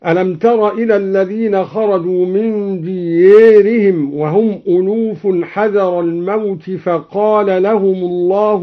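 ديارهم with the alif bent toward e, diyerihim; imala in ديارهم. Shown as a demonstration. Reciter demonstrating imala in ديارهم. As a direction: tilt the a of ديارهم and الناس toward e. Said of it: "أمال الألف من ديارهم ... هكذا".

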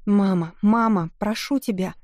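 high, loud pleading cry; fluttering cries for help. A narrator's reading. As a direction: scream for mother, begging. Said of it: "Она снова закричала, призывая на помощь".

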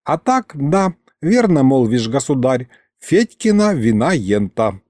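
lightly voiced old grandpa; an old man agreeing, folksy; old servant agreeing. Mikhalych agreeing with the tsar, old-man voice.

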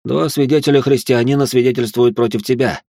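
usual speaking voice

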